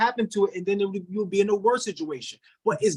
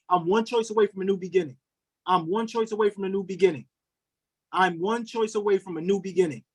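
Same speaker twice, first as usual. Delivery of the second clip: spoken affirmation. Shown as a demonstration. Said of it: "Everybody put that in the chat".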